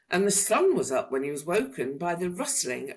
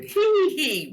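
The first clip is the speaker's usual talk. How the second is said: much higher, louder hee hee hee; wheezing giggle; 12 semitones higher, 7 dB louder than usual. A narrator's reading. Dragon being tickled, wheezing with giggles. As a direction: giggle helplessly. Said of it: "wheezed the dragon".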